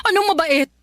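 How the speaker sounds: tearful retort. Acted. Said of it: "iyak ka ng iyak dyan".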